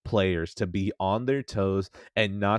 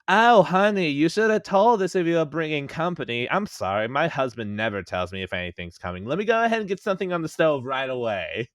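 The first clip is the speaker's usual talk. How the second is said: high, loud doting housewife voice; a fussy host apologising for her husband; Harley Quinn voice; 6 semitones higher, 3 dB louder than usual. Retold or imitated. To pirates on the ship, a doting housewife voice. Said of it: "decided to do a Harley Quinn voice".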